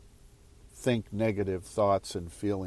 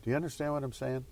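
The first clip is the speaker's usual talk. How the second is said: usual speaking voice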